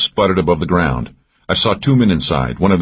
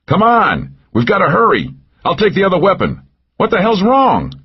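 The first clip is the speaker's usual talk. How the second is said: urgent yell; 14 semitones higher than usual. A narrator's reading. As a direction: hurry her along, worried. Urging wounded partner under fire.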